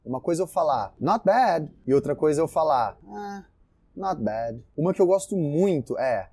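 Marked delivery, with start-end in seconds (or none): 1.0-1.7 not bad said higher and louder, lively; upbeat. Shown as a demonstration. Teacher shows a positive not bad to students. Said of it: "depende da entonação". 3.1-4.6 reluctant. Shown as a demonstration. Teacher shows a meh not bad to students. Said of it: "depende da entonação".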